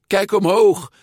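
loud, high shout of instruction; called-out order. A narrator's reading. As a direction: call it out sharply to the rider. Giulia orders Luca while cycling.

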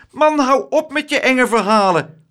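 high, loud scolding; horrified, high-pitched telling-off; indignant outcry. A narrator's reading. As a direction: cut him off in a shrieked protest. Woman scolds teller of scary tale.

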